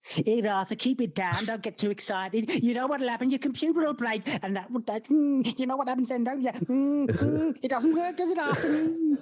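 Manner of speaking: put-on high, nagging Cockney old-woman voice. Podcast host mocks his friend in high Cockney. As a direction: needle him in a high Cockney nag. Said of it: "I call it your General Cockney one".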